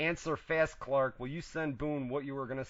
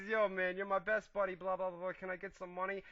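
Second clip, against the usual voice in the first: mock sweet-talking Boone; 6 semitones higher, faster than usual. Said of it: "he says".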